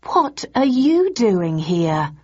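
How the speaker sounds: slow, disbelieving question; can't believe what she sees; incredulous. Acted. Thursday to the costumed tourists, slow and incredulous. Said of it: "I asked incredulously".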